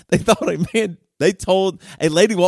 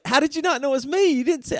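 higher, mock disbelief; incredulous dad; 11 semitones higher than usual. Dad asking his kids how they missed him, incredulous and pitched up. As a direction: ask it in amused disbelief. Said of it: "I was like".

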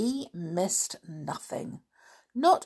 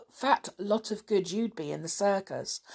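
rude; 3 semitones higher than usual. Acted. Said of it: "said Dick rudely".

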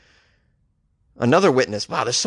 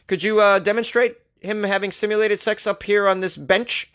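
mock judge; 5 semitones higher than usual. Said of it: "the judge was like".

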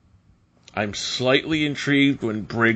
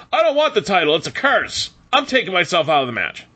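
high, whiny mock complaint; 7 semitones higher, faster than usual. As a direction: whine it like a sulking champ. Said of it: "Breakker was like".

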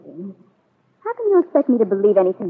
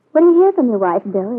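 pointed jab; 4 semitones higher, 4 dB louder than usual. Acted. Peggy pointedly asks about wife.

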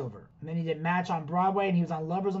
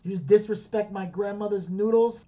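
the noodles line at full voice, building anger; same line, now squaring up; rising menace. Acted. Mock mafia threat repeated.

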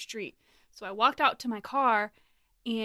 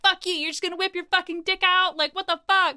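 high, raised-voice mock outrage; retold yelling; 7 semitones higher, 5 dB louder than usual. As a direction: act out a friend telling someone off. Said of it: "like, yelling at him".

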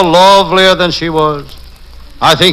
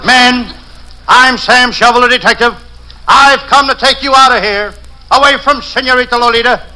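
calling out; 4 semitones higher than usual. Acted. Detective calling to freed prisoners.

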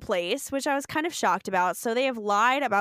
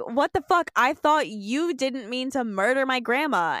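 mock outrage; 3 semitones higher than usual. Shelby accusing Carly over grandma, mock outrage. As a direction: throw the accusation back in mock disbelief. Acted quarrel between show characters.

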